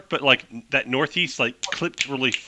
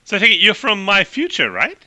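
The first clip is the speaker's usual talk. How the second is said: clipped Hepburn-style voice; 5 semitones higher, 5 dB louder than usual. Acted. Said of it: "really fast clipped talk like Katharine Hepburn".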